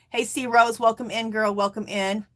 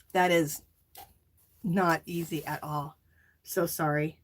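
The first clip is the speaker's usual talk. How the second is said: tearful sympathy; 2 semitones lower than usual. Real, not acted. Streamer consoling bereaved viewer Linda, tearful and subdued. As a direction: offer condolences while close to crying. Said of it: "I'm crying".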